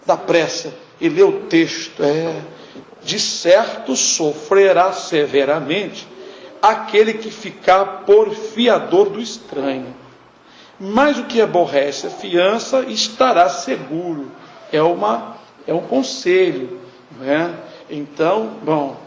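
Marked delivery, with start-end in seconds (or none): 3.0-14.3 slow, measured reading of a verse; solemn Bible reading to the congregation; scripture reading. Acted. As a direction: read the proverb out deliberately, slowly. Reads scripture aloud slowly.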